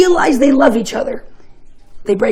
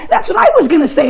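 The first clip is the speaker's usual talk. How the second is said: quick, higher, laughing fake agreement; mock eager, faster; rushed, laughing cover-up; quoting Hans again; 4 semitones higher, faster than usual.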